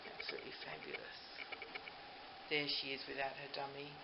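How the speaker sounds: usual speaking voice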